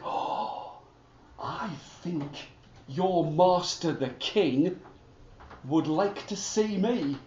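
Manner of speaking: a knowing horse speaking softly; calm talking horse. Acted. The horse quietly tells the soldier the king wants to see him.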